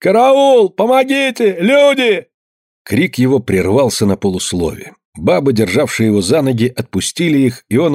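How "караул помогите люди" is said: very high, loud panicked yell; drowning man crying for help, wild high yell; wild scream for help. A narrator's reading. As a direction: scream for your life. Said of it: "вдруг дико заорал".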